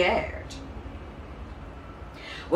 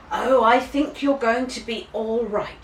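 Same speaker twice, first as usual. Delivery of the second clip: smiling; 6 semitones higher, 4 dB louder than usual. A narrator's reading. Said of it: "she smiled".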